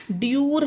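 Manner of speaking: ड्यूर with a hard D and "yoor"; wrong pronunciation. Shown as a demonstration. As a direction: say ड्यूर as "dyoor". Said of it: "तो ड्यूर नहीं".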